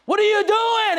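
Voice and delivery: high, incredulous cry; exasperated shout. Acted. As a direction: call them out at full pitch. Exasperated challenge to sales team.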